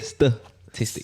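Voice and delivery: slow, syllable-split "Statistic"; showing pronunciation. Shown as a demonstration. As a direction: sound out "Statistic" slowly for someone learning it. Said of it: "How do you say it".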